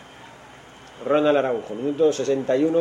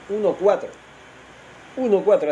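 excited score call; 7 semitones higher, 3 dB louder than usual. Real, not acted. Repeating the score in delight.

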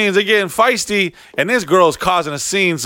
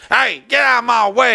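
pushy woman; 8 semitones higher than usual. Retold or imitated. Pushy lady barging in.

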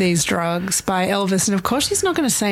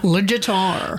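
Southern accent. Shown as a demonstration. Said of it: "in a southern accent".

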